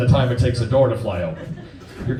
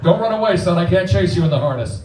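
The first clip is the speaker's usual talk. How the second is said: higher, urgent call to a fleeing son; calling after son; 5 semitones higher than usual. Retold or imitated. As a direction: yell after the kid, hammed-up. Dad calls after fleeing son.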